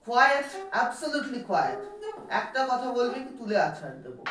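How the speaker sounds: high, forceful classroom scolding; stern threatening teacher. Acted. New teacher threatens a noisy class, sternly scolding. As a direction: demand silence like a strict master.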